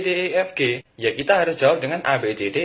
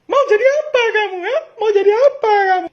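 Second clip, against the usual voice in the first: yelling parent; 10 dB louder than usual. Acted. Parent yelling at bad grades.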